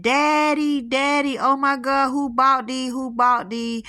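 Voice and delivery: a daughter sees her late father's orchid, mock crying; imitating crying daughter. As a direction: retell her wailing for her father, a bit hammed-up. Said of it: "she bust out screaming and crying".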